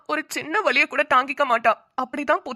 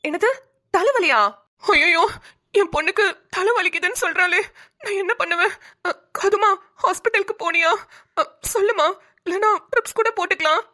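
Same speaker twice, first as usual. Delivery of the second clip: hammed-up worried wail; 5 semitones higher than usual. Mother-in-law overreacting to daughter's headache.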